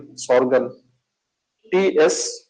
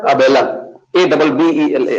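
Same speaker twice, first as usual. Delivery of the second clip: louder repeat; 6 dB louder than usual. Real, not acted. Teacher repeats name louder for class.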